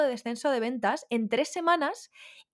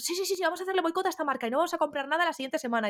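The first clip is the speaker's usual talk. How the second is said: quick, higher-pitched mock eagerness; eager boycotters; 6 semitones higher, faster than usual. Voicing Koreans rallying to boycott a brand, eager.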